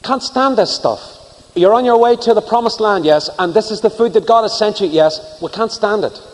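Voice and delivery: high-pitched put-on complaint; mock grumbling. Acted Israelites grumbling at manna.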